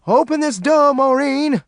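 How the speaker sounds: high, loud order through the door. A narrator's reading. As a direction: bang out the command. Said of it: "Fast Black ordered".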